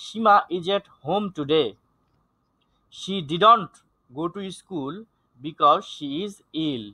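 slow teacher's reading with pauses between phrases; deliberate, spaced-out classroom reading; model reading. Shown as a demonstration. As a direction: read it out very slowly for the class. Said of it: "আমি আবার থেকে শুরু করি".

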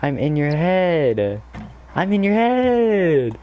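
slow, rising taunt; slow drawn-out taunt. Real, not acted. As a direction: stretch it out to mock the opponent.

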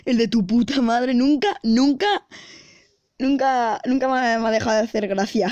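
talking through laughter, slowing down; real giggling, fighting to get words out; laughing while talking. Real, not acted. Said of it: "Vale, he perdido". (hablando entre risas)

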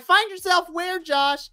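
high, loud exasperated demand; incredulous retort. Retold or imitated. Fan talking back to Josh's "find myself" promo, incredulous. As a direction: challenge him in rising disbelief.

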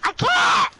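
high-pitched helpless whine; exasperated protest. Real, not acted. Player told to make their way up, protesting.

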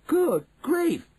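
loud, high cry of horror; appalled high-pitched outburst; shocked cry. A narrator's reading. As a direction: exclaim in sudden shock, voice leaping up. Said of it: "he cried".

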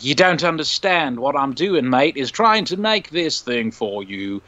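slow voice hopping from American to Australian to British; lightly done accent-hopping villain; mock accent switching. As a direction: drift through accents mid-line like a bad actor. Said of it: "switches from American to Australian to British".

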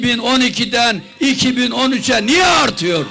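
building from firm to shouting; rally speech. Real, not acted. Rally speech attacking the prime minister.

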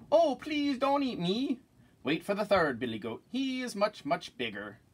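not so small voice. Acted. Second goat begging the troll, high pleading voice. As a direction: middle goat pleading, pitch jumping high. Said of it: "his voice was not so small".

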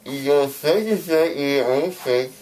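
slurred, numb tongue; words blurred by a numb mouth; numb from the dentist. Real, not acted. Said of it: "my tongue is so long".

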